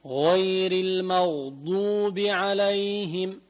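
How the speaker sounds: drawn-out recitation, heavy غ in غير and المغضوب; rounded heavy غ. Shown as a demonstration. Teacher demonstrating for students, slow recitation with rounded غ in المغضوب. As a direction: round the still غ in المغضوب too. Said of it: "حتى عند الغين الساكنة ضميت تمي".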